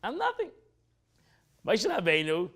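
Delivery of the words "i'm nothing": higher, chuckling through the words; a light, amused self-abasement; laughing mock humility. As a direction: laugh as you protest your nothingness. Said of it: "But he said".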